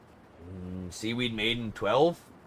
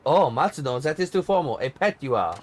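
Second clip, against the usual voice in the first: bossy diva in a light mock French accent, sharp start. Diva scolds her tour guide, light mock French accent. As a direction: snap at him in put-on French accent, then command. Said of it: "What do you think of my French accent?".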